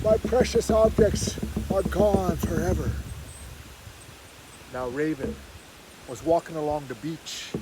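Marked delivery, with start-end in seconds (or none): 0.0-2.9 put-on old man's yell. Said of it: "yells the old man".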